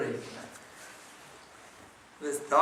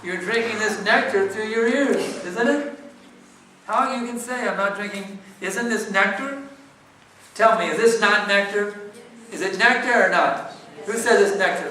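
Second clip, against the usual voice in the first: higher, insistent rhetorical questioning; incredulous challenge; 6 semitones higher, 5 dB louder than usual. Real, not acted. Teacher challenging a questioner who claims no experience, incredulous. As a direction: press the listeners for an answer, voice raised in pitch.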